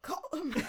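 coughed-out, throaty name; attempted creature cough on the name; Gollum cough. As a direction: cough the word out as you say it. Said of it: "I can't do the Gollum cough".

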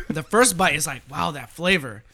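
talking through spicy heat; mouth full of hot food. Real, not acted. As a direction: mouth on fire, still talking. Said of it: "my mouth is on fire right now".

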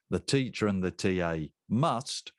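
repeated with MUST punched out; stress on must. Shown as a demonstration. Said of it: "I'm gonna say that again".

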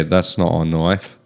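put-on slow, a touch of an Aussie accent; lightly voiced Aussie quote of "not a knife"; Crocodile Dundee quote. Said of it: "Or you just say".

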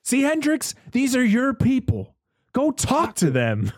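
high, slow mocking character voice, pitched far above his own; mocking imitation. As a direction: drawl it out slowly and high, like teasing a film character. Mock quote of a character.

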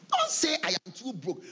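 amused scolding; 1 laughing command. Real, not acted. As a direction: tease the congregation. Preacher with a laugh.

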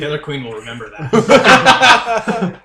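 slow, loud, ominous promise; menacing threat. Acted. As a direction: draw it out like a villain's vow. Character makes a threat.

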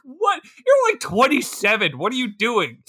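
high incredulous what; mock disbelief at a grown man. Viewer reacting to a rapper, incredulous.

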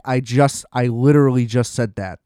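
sarcastic retort. Retold or imitated. His imagined parting shot to the agent, sarcastic. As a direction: bite it off with dry sarcasm. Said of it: "I was like".

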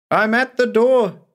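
high, loud shout. Acted. Patient calling down to the doctor from the hill, high loud shout. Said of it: "he shouted".

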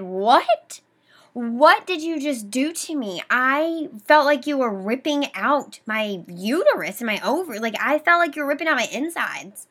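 3 replaying the fury of the moment; 1 retold angry outburst. 4 patient confronting her doctor after sudden pain, angry and loud.

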